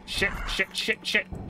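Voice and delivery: panicked whispered curses; whispering. Real, not acted. Panicked in horror game.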